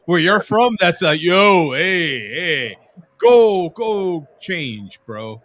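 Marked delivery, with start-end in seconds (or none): 1.2-5.4 put-on Boston accent. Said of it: "I got the freaking Boston accent down".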